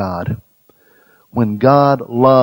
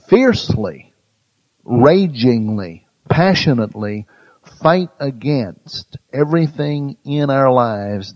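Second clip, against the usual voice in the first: fiercely, ragingly, passionately punched one by one; emphatic preaching; 3 semitones higher, 5 dB louder than usual. Real, not acted. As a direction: hammer each adverb, starting high and loud. Preacher drives home love's fierceness.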